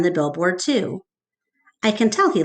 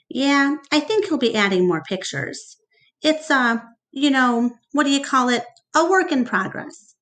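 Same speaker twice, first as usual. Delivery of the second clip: salesman Mac; 6 semitones higher than usual. Acted. Mac bragging to reporter.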